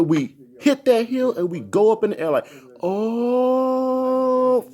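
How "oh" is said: startled oh. Retold or imitated. Car flying over hill.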